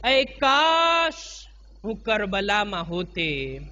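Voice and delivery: slow, drawn-out wishful lament; regretful longing. Acted. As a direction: voice a wistful wish, lingering on the words. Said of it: "એક જાતનો અફસોસ દિલમાં કરીને". (અફસોસભરી, ધીમી હસરત)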